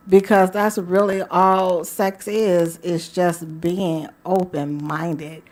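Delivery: slow, drawn-out seductive coaxing. Real, not acted. Radio host coaxing listeners to relax and enjoy, seductive. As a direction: stretch the words out to entice. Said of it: "You hear the sound of seduction in her voice".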